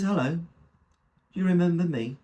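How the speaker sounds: lightly voiced little old man; little old fella.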